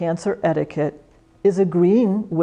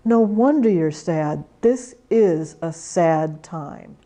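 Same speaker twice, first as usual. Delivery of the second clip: gentle validation; slower than usual. Shown as a demonstration. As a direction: acknowledge the sadness gently.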